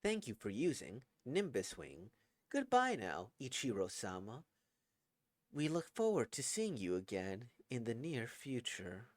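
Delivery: put-on even, stilted old-school robotic voice. AI bids the old man goodbye, stilted robotic voice. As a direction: sound like a dated computer. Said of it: "a bit of a stilted voice like this one".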